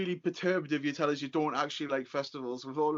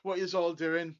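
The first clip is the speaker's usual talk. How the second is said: mock shout; 4 semitones higher, 4 dB louder than usual. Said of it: "being like".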